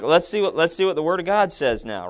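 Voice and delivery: mocking writer. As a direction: ham up a writer waiting for God's word. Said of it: "and then be like".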